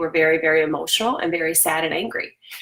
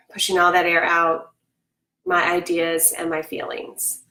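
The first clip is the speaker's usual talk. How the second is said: guided breathing. Acted. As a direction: breathe it out calmly with the class. Leads breathing again.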